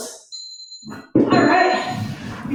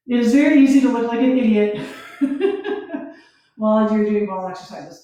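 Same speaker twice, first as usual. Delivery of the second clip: laughing; faster than usual. Real, not acted. Laughing at looking silly.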